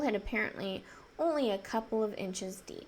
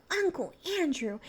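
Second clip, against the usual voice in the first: mild shout; 5 semitones higher than usual. Acted. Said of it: "And he shouted out".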